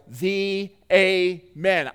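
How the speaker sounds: "the amen" drawn out very slowly, each syllable weighted; capitalized emphasis. Shown as a demonstration.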